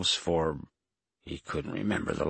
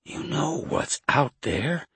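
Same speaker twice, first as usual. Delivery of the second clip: weak, high-pitched pleading; 6 semitones higher than usual. A narrator's reading. Weakened man asking Jason why, high weak voice. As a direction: plead feebly in a raised, thin voice. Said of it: "his voice weak".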